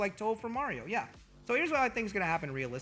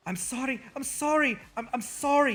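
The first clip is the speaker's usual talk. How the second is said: over-apologizing; 6 semitones higher than usual. Pretend. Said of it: "He continues to apologize".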